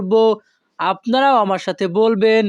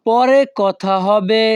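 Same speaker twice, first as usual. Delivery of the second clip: slow repeat; slower than usual. Shown as a demonstration. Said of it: "পরবর্তী বাক্যটি আছে".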